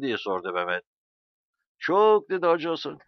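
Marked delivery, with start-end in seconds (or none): 1.8-2.3 high, loud one-word answer; emphatic reply. A narrator's reading. Hacı Hasan answering Mehmet's question about weapons, emphatic. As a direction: fire it back emphatically.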